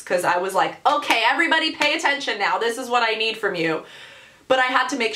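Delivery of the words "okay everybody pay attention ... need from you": diva demand. Retold or imitated. Customer ordering the whole kitchen about, mild diva. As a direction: lightly play a star addressing the room. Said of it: "thought that I was, like, pop-star famous"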